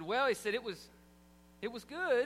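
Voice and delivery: hesitant, half-hearted praise; grudging well. Retold or imitated. Husband grudgingly praises wife's cooking, hesitant. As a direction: drag out "Well" before "it was good". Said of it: "y'all hear my tone?".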